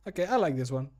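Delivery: normal talking voice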